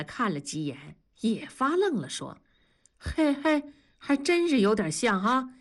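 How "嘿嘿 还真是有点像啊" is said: sheepish chuckle. Acted. Husband chuckles, admits resemblance.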